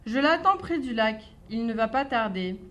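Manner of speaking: a touch of a bright, cheeky mouse; lightly voiced clever mouse. Mouse bluffing the snake about a gruffalo, light cheeky voice. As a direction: play the little mouse bluffing sweetly.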